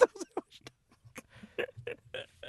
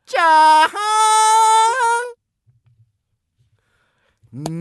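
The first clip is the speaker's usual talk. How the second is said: slow impression; 14 semitones higher, 10 dB louder than usual. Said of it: "なんでモノマネすんのに四分かかるの".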